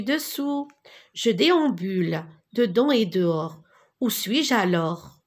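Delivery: lilting singsong chant of a rhyme; rhythmic recitation. Shown as a demonstration. Teacher to pupils, chanting the rhyme as a model. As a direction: chant it for children to echo. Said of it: "Je répète et répétez avec moi".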